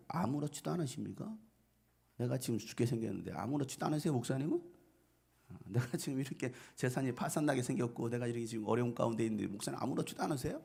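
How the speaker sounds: mildly indignant mock questioning; lightly acted aggrieved churchgoer; confronting complaint. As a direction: challenge the pastor, a touch reproachful. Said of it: "이렇게 따지는 거예요".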